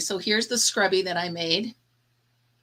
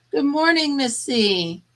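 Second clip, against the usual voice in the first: cheery pet greeting; 6 semitones higher, 4 dB louder, slower than usual. Real, not acted.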